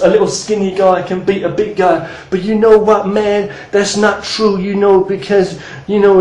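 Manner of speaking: lightly imitated dismissive doubter; a hint of a put-on know-it-all naysayer; mock online sceptics. Teacher imitating YouTube people who doubt kung fu, lightly mocking. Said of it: "you hear a lot of people talking about".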